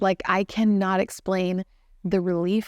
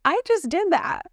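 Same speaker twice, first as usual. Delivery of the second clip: elated disbelief; 6 semitones higher than usual. Retold or imitated. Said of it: "I was laughing uncontrollably because I was like".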